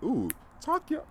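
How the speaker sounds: high, slow crowd hype; mock poetry-slam audience approval; poetry slam cheering. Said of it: "like, we're at a poetry slam".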